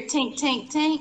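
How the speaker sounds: metallic tink sounds; imitated tinking. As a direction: voice small tinks, one after another. Imitating noise heard in the room.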